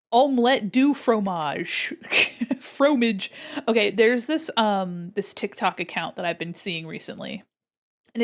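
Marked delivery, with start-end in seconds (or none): 0.1-3.3 mock French. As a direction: say Omelette du fromage like a cartoon Frenchman. Hammed-up fake French phrase.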